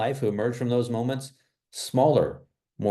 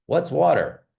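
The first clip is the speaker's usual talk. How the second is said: higher, louder baffled little voice; puzzled young fish; 7 semitones higher, 4 dB louder, slower than usual. Retold or imitated. Young fish asking his friend, higher and baffled. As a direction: ask it like a lightly voiced naive young fish. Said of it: "he goes".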